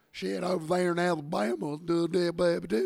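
loud, high, hammed-up West Georgia drawl; mock Southern drawl. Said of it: "they, they would go".

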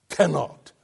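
"cannot" released with a sudden burst; explosive ictus. Shown as a demonstration. Preacher showing held-back intensity, "cannot" exploded at the onset. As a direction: hold back, then fire off "cannot". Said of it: "holding back before I say the word".

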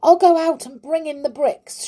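high, loud, impulsive announcement; sudden cry. A narrator's reading. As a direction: blurt out a sudden decision. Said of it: "cried suddenly".

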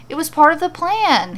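plan leaned on hard, a bit high and loud; frustrated, emphasis on plan; frustrated stress on plan. Acted. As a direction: hammer the word plan in frustration. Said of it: "putting a great deal of emphasis on the word plan".

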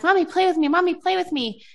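put-on high-pitched child begging a parent; repeated high singsong plea; pleading young son. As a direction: imitate a little kid nagging Mommy. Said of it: "my son's like".

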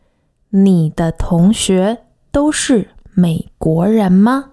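the sister's question said slowly and clearly; slow teaching read; slow, careful quote. Shown as a demonstration. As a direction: spell out 你的同学都是美国人吗 slowly, word by word. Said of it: "we hear the elder sister ask".

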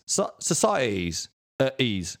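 Cockney "societies", slow, with shifted vowels; Cockney: stretch the vowel in "societies"; Cockney accent. Shown as a demonstration. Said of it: "they diphthong alteration".

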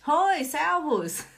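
loud, slow hoi, servus; teacher greeting the class, loud and slow; bright greeting. Shown as a demonstration. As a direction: call it out slowly. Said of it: "né".

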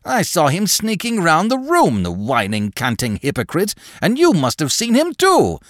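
put-on very high, agitated old man; sharp, high-pitched rant; sharp, unnatural voice. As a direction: accuse wildly in a strained high voice. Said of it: "in a sharp, unnatural sort of voice".

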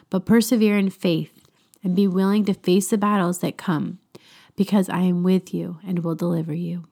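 calm, measured voice speaking as a loving Father; gentle devotional reading. Acted. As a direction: read it as God gently reassuring a child. Reads devotional as God speaking.

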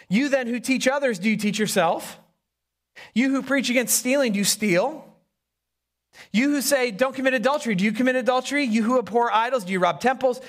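pointed, mildly mocking questions; a little sarcastic. Preacher reads Paul challenging hypocrites, a little sarcastic. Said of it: "Paul gets a little sarcastic".

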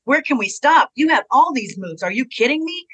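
high, loud, incredulous outburst; retold giddy disbelief; amazed. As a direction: squeal it like you can't believe the list. Retold amazement at her old moves.

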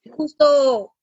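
slow, tearful catch in the voice; slow and near tears; choked up. Real, not acted. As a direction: hold back a sob. Retelling distressing arrest.

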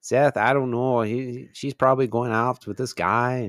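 put-on mild Canadian accent, close to Wisconsin; lightly attempted Canadian baboon; a hint of upper-Midwest in a Canadian accent. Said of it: "Sounds like more like Wisconsin".

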